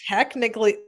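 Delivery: ordinary delivery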